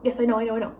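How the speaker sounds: re-enacted annoyed brush-off; mildly irritated, repetitive dismissal. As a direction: rattle it off to brush mom aside. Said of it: "I'm, like, all annoyed".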